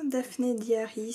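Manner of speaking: "Daphné Diary" said slowly with an English accent. Real, not acted. Reading a magazine title to viewers, in an English accent. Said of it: "avec mon accent anglais, désolé".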